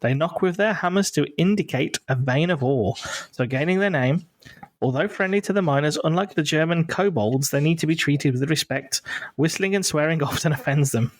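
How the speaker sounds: measured read-out of a folklore blurb; reading aloud. Real, not acted. Host reads the knockers blurb out for the listeners, measured reading. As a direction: read it out steadily in your normal accent.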